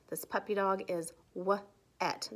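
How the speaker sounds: w-et split into w and et; sounding out words. Shown as a demonstration. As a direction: break w-et into onset and rime. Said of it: "they all have E T at the end".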